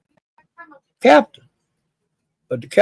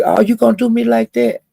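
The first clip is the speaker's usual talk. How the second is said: mock hurt; 8 semitones higher than usual. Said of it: "And she".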